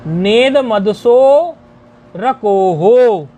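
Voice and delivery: "नेद मदसो रकोहो" very slow, in verse rhythm; छंदवत उच्चारण. Shown as a demonstration. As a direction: stretch "नेद मदसो", then link the r into a long "रकोहो". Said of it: "ऐसे इसका उच्चारण है". (छंद की लय में, खींचकर उच्चारण)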